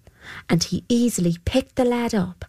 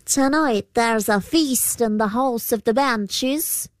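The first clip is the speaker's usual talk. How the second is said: creature voice; 4 semitones higher than usual. Acted. Púca answers the boy.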